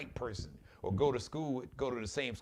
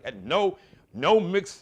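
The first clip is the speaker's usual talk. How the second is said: higher, louder mock Hungarian accent; 7 semitones higher, 12 dB louder than usual. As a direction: parody Orban's Hungarian accent, loud and high. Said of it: "with this funny ass acc-, accent".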